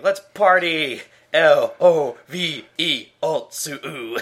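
loud, high party cheer; excited cheer. Retold or imitated. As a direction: shout it like a hyped fan. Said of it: "And he's like".

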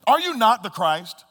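slow mocking question, dripping with sarcasm; sarcastic jeer. Thief railing at Jesus on the cross, slow sarcastic jeer. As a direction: sneer it slowly at him. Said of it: "it drips with sarcasm".

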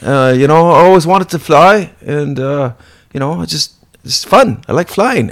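a lightly voiced carefree young vampire; dopey Nick. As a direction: Nick cheerfully justifying himself. Nick defending his flying.

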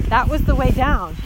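retold panicked scream. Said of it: "I start crying, screaming".

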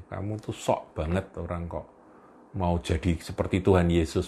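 annoyed mutter. Acted. Annoyed disciples mocking Peter.

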